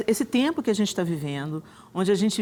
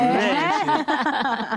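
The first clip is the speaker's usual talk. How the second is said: laughing; 8 semitones higher than usual. Real, not acted. Host laughing at accent.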